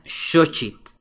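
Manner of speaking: "xochitl" said SHO-chit. Shown as a demonstration. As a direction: start "xochitl" on a sh sound. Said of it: "se pronuncia como sh".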